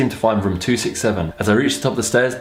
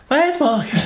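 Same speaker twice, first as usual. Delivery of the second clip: high laughing repeat; laughing echo; slower than usual. Real, not acted. Echoing the listener, laughing.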